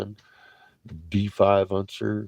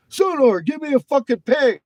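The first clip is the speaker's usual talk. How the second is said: much higher, louder barked command; captain's order; 9 dB louder than usual. Retold or imitated. Captain ordering sonar to ping the contact, loud hammed-up bark. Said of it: "he's like".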